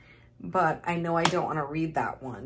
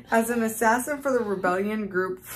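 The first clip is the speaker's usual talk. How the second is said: laughing while reading; 4 dB louder than usual. Real, not acted. Reading blurb through laughter.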